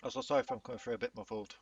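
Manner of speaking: talking through a mouthful of chicken; eating while talking; mouth full. Real, not acted. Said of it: "I'm currently eating".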